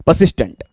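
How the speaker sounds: परसिस्टेंट with no r sound, "puh-sis-tent"; silent R. Shown as a demonstration. Teacher asking students to silence the R, परसिस्टेंट as "puh-sistent". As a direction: drop the r in परसिस्टेंट. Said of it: "आर को silent कर दीजिएगा".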